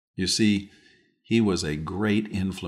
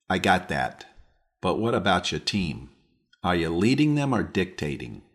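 put-on New England accent. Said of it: "in his New England accent".

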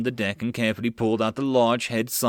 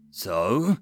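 barked back angrily; 6 semitones higher, slower than usual. Acted. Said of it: "Mills barked back angrily".

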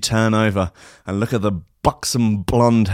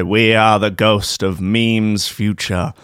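slow, lower, mock-solemn ghost; ghostly voice; 3 semitones lower, slower than usual. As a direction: drone the warning like a doom-laden spirit.

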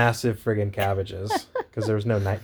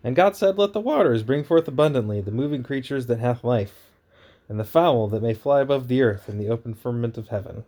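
booming biblical narration. Acted. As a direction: proclaim it like a preacher. Reads Genesis aloud.

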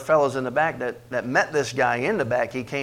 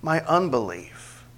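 crying out; 4 semitones higher, 5 dB louder, much slower than usual. Acted. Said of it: "cried out and said with tears".

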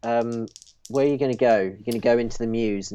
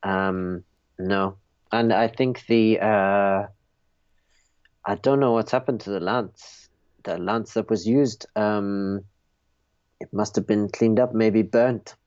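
put-on French accent. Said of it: "your French accent".

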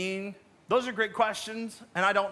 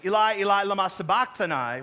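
raised voice, a restrained retold cry; 4 dB louder than usual. Preacher quoting Jesus on the cross, lightly acted loud cry. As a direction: call it out firmly, louder on the name. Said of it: "cried out in a loud voice".

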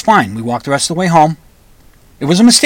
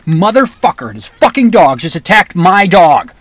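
mild re-enacted angry yell, slightly raised; retold yelling; 3 semitones higher, 3 dB louder than usual. Owner walking away cursing the attack, retold yell held back. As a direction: curse as if yelling, at reduced force. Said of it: "I'm yelling out things like".

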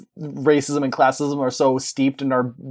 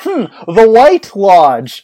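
slow, loud, mock-suspicious musing; thinking hmm; 6 semitones higher, 9 dB louder, much slower than usual. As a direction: drag it out like a sly detective. Mock pondering about the villains.

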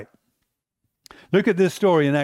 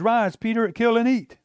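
raised, commanding heavenly voice; voice of God; 6 semitones higher than usual. Acted. God's voice in retold vision.

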